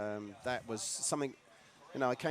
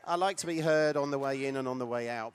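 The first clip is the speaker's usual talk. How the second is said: laughing; 5 dB louder than usual. Real, not acted. Jokes about his loud truck.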